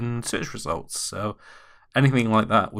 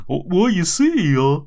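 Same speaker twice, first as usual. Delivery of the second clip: Minnie voice; 6 semitones higher, 6 dB louder, slower than usual. Acted. Minnie voiced in silly scene.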